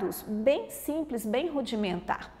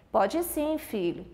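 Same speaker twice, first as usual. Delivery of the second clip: parent's reply; slower than usual. Acted. Parent answering child in acted dialogue.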